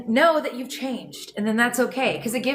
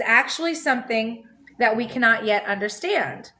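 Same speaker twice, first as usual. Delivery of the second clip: measured reading of a spiritual text; calm book reading; reading a text aloud. Acted. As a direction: read it out steadily like a passage. Reads book passage aloud.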